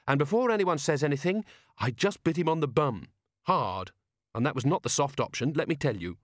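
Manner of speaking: indignant Angua. Acted. Angua heading off any comments, mildly indignant. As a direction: set them straight, a touch indignant. Angua defends herself in story.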